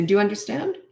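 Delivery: unforced question with a rising end; calm check. Shown as a demonstration. Parent checking a child understood, calm and unthreatening. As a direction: ask calmly, leaving out any threat. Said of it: "I would just say".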